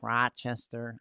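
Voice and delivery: Rochester with a broad local vowel; Rochester accent. Shown as a demonstration. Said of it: "it might be my Rochester accent".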